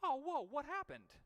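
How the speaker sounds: high, loud, oblivious surprise; clueless latecomer. Retold or imitated. Latecomer walking in on the game, loudly surprised. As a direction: play the guy who missed it all. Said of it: "somebody walked in ... and goes".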